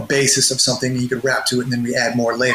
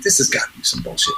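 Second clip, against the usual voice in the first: skeptical; 3 dB quieter, faster than usual. Retold or imitated.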